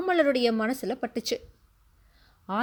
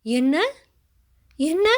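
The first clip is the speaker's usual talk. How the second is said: stunned disbelief; 3 semitones higher, 3 dB louder, slower than usual. A narrator's reading. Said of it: "கேட்ட தொனியில".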